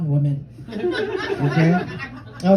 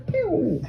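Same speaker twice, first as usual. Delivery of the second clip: high, falling "pew" noise; soft little falling pew; imitated "pew"; 11 semitones higher, 5 dB quieter than usual. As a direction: make a quick high pew sound. Imitates quick shot sound.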